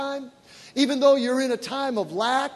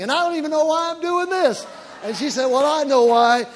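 excited retelling; 3 semitones higher, 4 dB louder than usual. Retold or imitated. Climax of retold blessing story.

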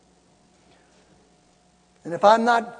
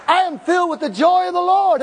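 jubilant declaration; 3 semitones higher than usual. Acted. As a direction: proclaim it like you just woke up victorious. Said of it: "get up in the morning and say".

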